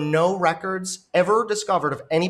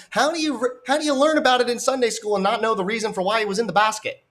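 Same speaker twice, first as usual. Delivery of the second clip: incredulous; 6 semitones higher, faster than usual. Real, not acted. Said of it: "incredulous rant".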